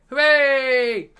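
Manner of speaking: high loud mock hooray; mock cheer. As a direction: celebrate sarcastically. Mocking Farrow quitting cheer.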